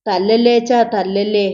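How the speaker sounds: put-on narrated child's plea, understated; crying plea. A narrator's reading. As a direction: beg Father to stop, with a touch of a cry. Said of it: "ഉറക്കെ കരഞ്ഞു".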